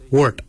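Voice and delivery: wort said alone as one short syllable; "wort" as a careful, isolated lesson example; Noongar word demo. Shown as a demonstration. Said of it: "we say wort".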